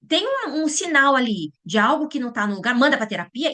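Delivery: high, whiny mock of a worried parent; send-them-to-therapy whine, sarcastic. Mocking parents who outsource to therapy.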